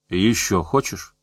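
soft, slow, low obliging offer; an unseen tormentor's polite, drawn-out question. A narrator's reading. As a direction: ask helpfully, slowly and quietly. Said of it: "услужливо спросил невидимка".

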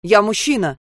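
exclaimed. A narrator's reading. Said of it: "воскликнул вахтёр".

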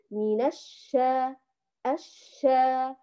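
الشا with held sh, then open long aa; deliberate, evenly doubled ش in الشا; correct doubled shin. Shown as a demonstration. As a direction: slowly model both shins in الشا. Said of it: "لا، خطأ، نقول".

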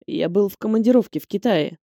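polite. A narrator's reading. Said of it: "вежливо ответил Нариман".

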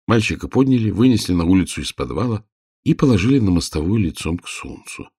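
plain reading voice

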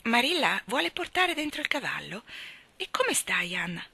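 a kindly lady's welcome, rising with delight; lightly voiced hostess. Mrs Spencer welcoming Marilla and Anna, lightly voiced delight. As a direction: gush a little over the visitors.

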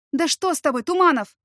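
high, loud shocked cry of his name; astonished exclamation. Acted. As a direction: exclaim in disbelief. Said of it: "воскликнула я изумлённо".

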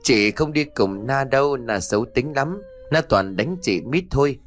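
put-on high, tearful little-girl refusal; crying child. Mít refuses to play with Na, tearfully protesting. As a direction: whine in protest like an upset child. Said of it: "khiến bé Mít khóc ngày một to hơn".

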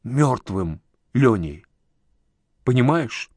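slow, understated grief; tearful grief. A narrator's reading. Uncle telling nephew of the death, slow, tearful. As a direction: force the words out slowly, mildly tearful. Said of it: "Он сгорбился и всхлипнул".

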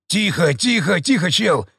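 quick hysterical gabble; hysterical mumble. Acted. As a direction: babble it hysterically. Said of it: "истерично забормотал мародёр".

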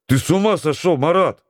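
high, flustered protest. Acted. Mate taken aback by the counter-challenge, flustered. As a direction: caught off guard, protest. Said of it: "растерялся Козырев".

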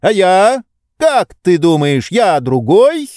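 high, slow, reproachful lecturing; a pampered master scolding his servant; indignant master. A narrator's reading. Oblomov triumphant.

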